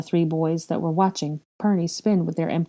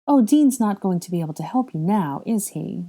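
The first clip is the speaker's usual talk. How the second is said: mock-concerned villain's taunt; needling, with a falling-away tag question; 3 semitones higher than usual. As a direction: taunt a helpless captive. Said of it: "Bellatrix taunted".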